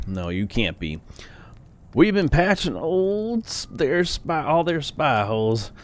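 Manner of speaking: lightly voiced startled old man; a hint of a rambling old man. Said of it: "Let me get my old man voice".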